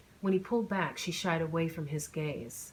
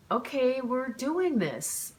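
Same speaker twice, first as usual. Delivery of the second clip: higher, louder, slow and resolved; decided okay; 7 semitones higher, 4 dB louder, much slower than usual. A narrator's reading. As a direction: commit to it, slowly and firmly. Deciding firmly after hesitating.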